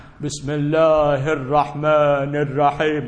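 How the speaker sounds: imitating an Iranian reciting บิสมิลลาฮิรเราะห์มานิรเราะฮีม; mock Iranian-accented Quran reading; light Iranian accent on Arabic recitation. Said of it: "พวกอิหร่านมันต้องอ่านอย่างนี้นะ".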